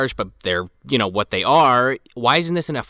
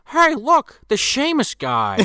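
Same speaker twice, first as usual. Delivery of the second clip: mock excited teen; 12 semitones higher, slower than usual. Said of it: "walking down the street".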